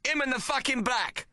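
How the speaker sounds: high accusing yell. Acted. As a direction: bellow it to the whole pub. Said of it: "Maple yells to all".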